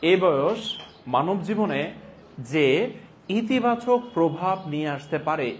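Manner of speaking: slow, word-by-word dictation; slowly. Shown as a demonstration. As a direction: spell each phrase out for notes. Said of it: "আস্তে আস্তে বলছি". (ধীরে ধীরে শ্রুতিলিখন)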